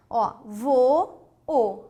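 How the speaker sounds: Ó, vou, then o, split apart; syllable split. Shown as a demonstration. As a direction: say vou then o as separate beats. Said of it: "Tá vendo?". (sílabas vou, o separadas)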